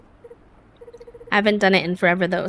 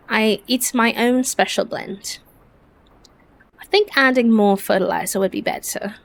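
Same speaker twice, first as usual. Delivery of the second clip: earnest storybook friend, lightly acted; British-accented game character; 2 semitones higher than usual. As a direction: read it as an eager, bookish friend with a put-on English accent. Reads game character's dialogue.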